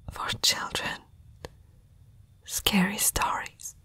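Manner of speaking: barely voiced, uneasy murmur; hushed unease. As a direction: whisper it as dawning dread. Recalls name from frightening tales.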